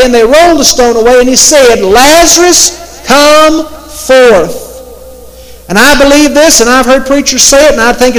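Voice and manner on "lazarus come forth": raised commanding call to the dead; Jesus calling Lazarus forth, commanding. Retold or imitated.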